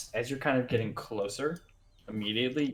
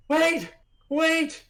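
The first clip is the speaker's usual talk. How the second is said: high calls, then slower; warning yell; 13 semitones higher, 3 dB louder, much slower than usual. Retold or imitated. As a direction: call out a warning from afar. Retold warning shout of a stranger.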